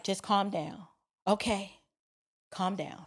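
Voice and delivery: soft, low retold hushing; calming. Friends to passenger after her outburst, calming. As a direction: talk a worked-up friend down.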